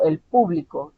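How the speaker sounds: "el público" with PÚ strong, falling; stress on first syllable. Shown as a demonstration. Teacher linking accent mark to sound, first syllable of "público" stressed. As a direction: put the weight on PÚ in "público". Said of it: "está en la primera".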